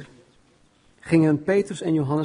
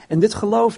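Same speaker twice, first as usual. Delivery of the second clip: geloof lifted high and pushed louder; emphatic lift; 7 semitones higher, 5 dB louder than usual. Real, not acted. Preacher to congregation, geloof stressed high. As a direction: lean hard into geloof.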